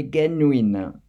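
"genuine" in a French accent, stressed high and loud. Shown as a demonstration. Creator demoing his French pronunciation of "genuine" for viewers, French accent. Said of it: "So with my French accent".

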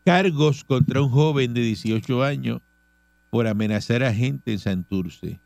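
measured radio news reading. Real, not acted. Host reading charges to the audience, news read. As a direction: read out the police report evenly.

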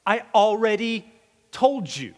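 a touch of exasperation, leaning on told; weary "I already told you"; mildly fed-up reply, told stretched; exasperated Jesus. Acted.

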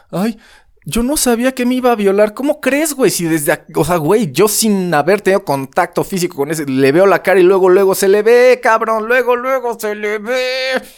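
mock the gullible victim, shrill and loud. Mocking a naive victim's voice. (voz burlona de víctima ingenua)

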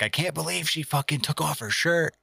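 clickbait voice. Pretend. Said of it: "or, like".

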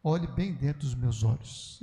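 low, slow, deliberate pastor's command; Messias Anacleto. Retold or imitated. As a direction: lightly imitate a grave preacher, drawing it out. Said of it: "Ele fala desse jeito".

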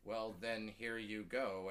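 stunned, slow compliance; a startled oh, then hand it over meekly; mildly robotic politeness after a shock; complacent robot. Retold or imitated. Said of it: "I just became this complacent robot".

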